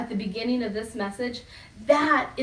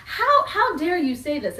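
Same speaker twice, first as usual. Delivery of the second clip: mock-indignant, higher and louder; mock offended disciples; 5 semitones higher, 3 dB louder than usual. Disciples pretending to be morally offended, mock outrage. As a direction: play it as hammed-up outrage. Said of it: "But they're not like".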